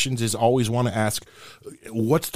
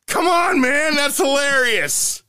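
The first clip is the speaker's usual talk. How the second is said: excited pleading; slower than usual. Real, not acted. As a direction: shout it out, begging them to laugh. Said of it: "laughing at own joke".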